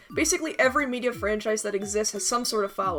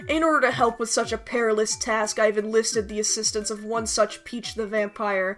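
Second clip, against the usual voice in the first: horror host; 3 dB louder than usual. Acted. Spooky intro to deranged fandoms.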